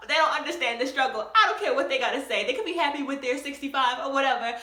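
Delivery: loud, determined brush-off; a touch of proud defiance; defiant. Retold or imitated. Student brushing off classmates, mildly defiant. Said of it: "I was like".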